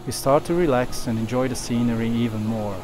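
calm documentary voiceover; nature documentary. A narrator's reading. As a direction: narrate the wildlife scene calmly. Narrated voiceover over music.

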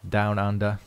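put-on half-hearted Australian accent; throwaway attempt at an Australian accent; bad Australian accent. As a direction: put on a poor Aussie accent, casually. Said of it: "That's the worst Australian accent ever".

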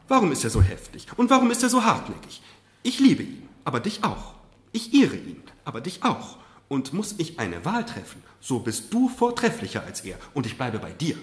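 loud, high, pleading speech; impassioned mother. Acted. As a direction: press every line with passion. Mother pleads her loyalty.

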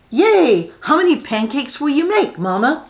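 put-on jubilant little boy; excited child cheer.

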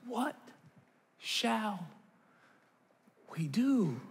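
soft, drawn-out mock despair; hushed, one word at a time with long gaps; helpless resignation. Parent about kids not doing well in school, quietly helpless.

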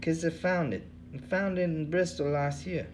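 a weary bum who cares for nothing, high; second hobo voice. Acted. Bum Hubbard answering the interviewer, in a high tired voice.

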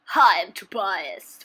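lightly put-on voice, drawn out; Tobias. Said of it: "Really bad Tobias imitation".

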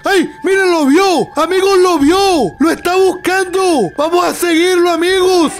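excited alert. Acted. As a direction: call the viewers along on the chase. Spots a clue, calls to viewers. (exclamando con emoción)

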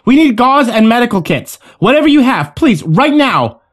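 high-pitched pleading shout; urgent shout. A narrator's reading. Yen demands medical kits for a wounded man, urgent shout. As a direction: shout for help, stretching the last plea. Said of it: "Yen stood up and shouted".

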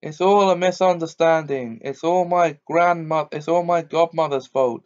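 high, loud whining lament; wailing. Acted. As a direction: wail like a self-pitying old man. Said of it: "It was wailing on".

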